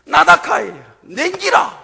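loud, high Gyeongsang command; Gyeongsang dialect. Retold or imitated. Jesus calling to the waves in Gyeongsang dialect. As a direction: bark it out like a Gyeongsang man. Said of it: "이렇게 표현했을 거예요".

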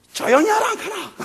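high, mock-stern Gyeongsang shout; Gyeongsang scolding. Jesus scolding the stormy waves in Gyeongsang dialect. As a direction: tell the sea to hush, Gyeongsang style. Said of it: "이렇게 표현했을 거예요".

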